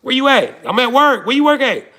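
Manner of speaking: high, muffled like a call from underwater; muffled underwater phone voice. Retold or imitated. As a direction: pitch it up and muffle it like a drowned phone line. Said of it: "her phone sound like she underwater".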